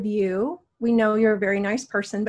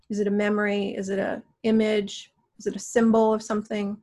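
guided meditation. Acted.

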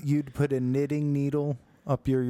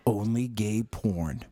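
mock announcer voice; slower than usual. S1 voicing the announcer.

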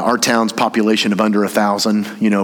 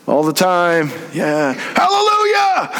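cheesy Jerry greeting; 6 semitones higher, slower than usual. Retold or imitated. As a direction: overdo a fake-pious hello, up high. Jerry mocked as cheese ball.

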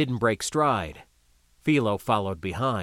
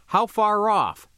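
urgent demand; 9 semitones higher, 4 dB louder than usual. Acted. Fat man demanding urgently.

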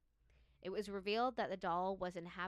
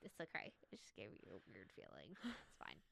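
whispering; 11 semitones lower, 11 dB quieter than usual. Real, not acted. Shudders at weird feeling.

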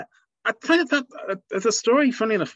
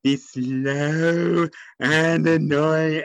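slow, condescending mock voice; patronising mock voice; 3 dB louder, much slower than usual. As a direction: talk down like to a baby. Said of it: "It overplays a label".

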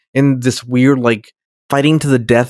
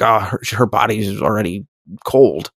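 a hint of the doctor; 4 semitones lower than usual. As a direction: report it like a doctor giving bad news. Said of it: "she's like".

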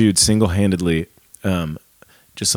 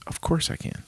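tender reassurance; 7 dB quieter than usual. Acted. Dad agreeing to help with homework, soft and tender. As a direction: hush and reassure the child. Dad answering child's request.

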